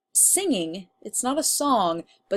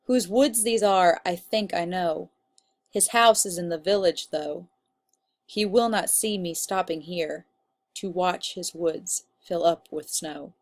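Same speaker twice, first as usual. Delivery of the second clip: poem reading. Shown as a demonstration. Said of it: "I'm gonna read this verse".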